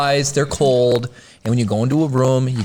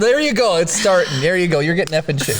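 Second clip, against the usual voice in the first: usual speaking voice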